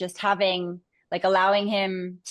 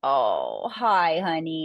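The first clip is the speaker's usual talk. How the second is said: overwhelmed by cuteness; 3 semitones lower, much slower than usual. Real, not acted. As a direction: coo at the sleepy dog. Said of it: "look at his little face".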